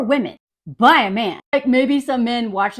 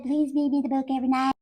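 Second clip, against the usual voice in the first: mocking quote; 7 dB quieter, much faster than usual. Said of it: "I don't care that she said".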